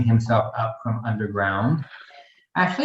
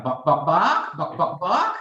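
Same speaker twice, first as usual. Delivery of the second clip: higher mock barks, breaking into a laugh; chicken barking; 5 semitones higher, slower than usual. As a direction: bark it out, laughing at the joke. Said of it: "the chicken is like".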